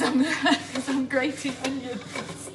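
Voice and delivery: laughing through the words. Real, not acted. Grating onions for viewers, laughing through it. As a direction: giggle while you explain.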